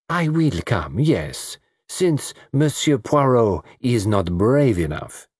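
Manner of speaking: put-on accented coquette, slowing at the end; teasing South American woman. Lola accepting a dance to shame the detective, teasing. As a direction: swoop through it with a playful taunt.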